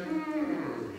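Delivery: high noncommittal royal hum; the Queen. Acted. Monarch answering a performer's greeting, high noncommittal hum. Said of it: "And then she went".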